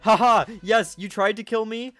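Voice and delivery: loud, high crowing with a ha-ha; triumphant gloating. Real, not acted. Gamer taunting a player who tried to kill them, gleeful gloat. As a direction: crow over your beaten attacker. Gloating at failed in-game attacker.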